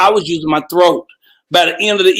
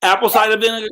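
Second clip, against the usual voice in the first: higher, surprised checking question; 4 semitones higher, faster than usual. Real, not acted. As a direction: ask it again in surprise. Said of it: "I thought you said vinegar".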